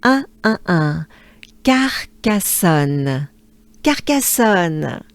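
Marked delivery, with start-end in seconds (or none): 1.6-5.0 Carcassonne with weight on the second A; stress second A. Shown as a demonstration. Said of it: "emphasize the second A".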